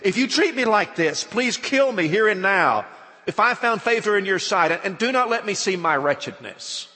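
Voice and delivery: loud, high, pleading despair; anguished plea. Acted. Moses' anguished plea read aloud.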